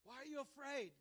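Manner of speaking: challenging question. Acted. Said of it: "Then he asked them".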